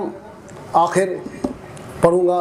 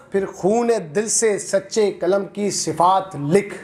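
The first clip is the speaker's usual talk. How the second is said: slow, measured mushaira verse delivery; poetry recitation; 3 semitones higher, slower than usual. Acted. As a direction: recite it line by line, pausing and lifting repeats. Recites a protest poem.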